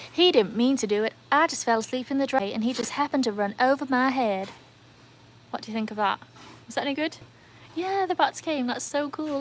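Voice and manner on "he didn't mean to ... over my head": louder, announced fake American voice; American accent. Shown as a demonstration. Streamer demonstrates for viewers on announcement, fake American accent. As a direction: deliver the line as a put-on American. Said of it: "Right, here's my American".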